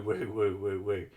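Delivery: imitating a siren. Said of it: "I did like the woo".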